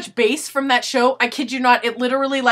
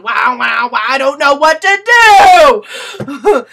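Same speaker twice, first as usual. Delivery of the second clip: dazzled eyes; 2 semitones higher, 9 dB louder, slower than usual. Retold or imitated. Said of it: "My cones were going".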